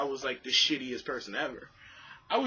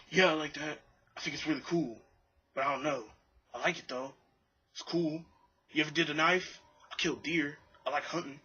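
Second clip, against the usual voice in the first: lightly imitated oddball brother; a hint of someone's odd speech pattern; weird speaking pattern. Brother chatting about knives and hunting, lightly imitated weird speech. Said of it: "the brother had this weird speaking pattern".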